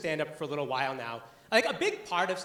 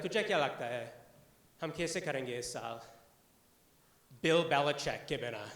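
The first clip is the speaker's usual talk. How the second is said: lightly voiced family member chatting in Hindi; casual talk at home about the Patriots; हल्के से परिवार की बातचीत; 4 semitones lower than usual. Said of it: "it'll be like".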